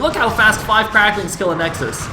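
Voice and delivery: keyed-up esports commentary; urgent running match call; excited play-by-play. Real, not acted. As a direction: call the rush live as it unfolds. Live play-by-play of Nexus attack.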